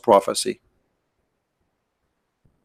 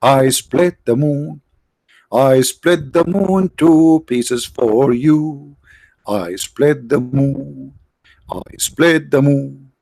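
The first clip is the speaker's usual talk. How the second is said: slow, drawn-out proclaiming voice, a hint of God announcing; mock divine proclamation; much slower than usual. Streamer mocking what Allah should have said, slow grand proclamation. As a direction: spell out each word slowly like a grand decree. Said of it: "shouldn't Allah says".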